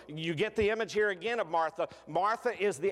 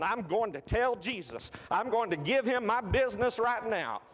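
furious Martha; 4 semitones higher than usual. Retold or imitated. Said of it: "She's going".

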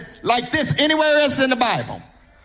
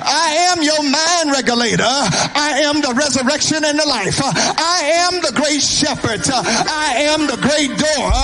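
whooping preacher close. Real, not acted. Preacher whooping the I am list to the church. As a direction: build it in a sung preaching chant.

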